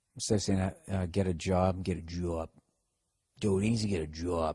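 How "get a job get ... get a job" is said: slow Boston accent, "job" said like "jaw". Showing how the Boston accent came back after a week in Boston. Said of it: "for those of you working on your Boston accents".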